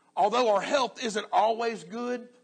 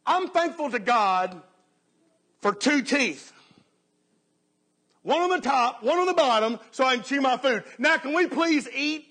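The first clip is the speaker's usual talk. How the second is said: put-on higher, louder, impatient old lady; little old lady; 5 semitones higher, 5 dB louder than usual. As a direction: play a thankful old lady, raised voice, eager to eat. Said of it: "one little old lady said".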